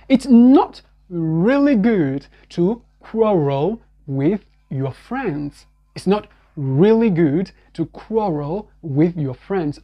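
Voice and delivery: slow, careful sample sentence; English sentence drill. Shown as a demonstration. Teacher reading an example sentence, slow. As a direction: model the sentence slowly. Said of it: "le mouvement du re".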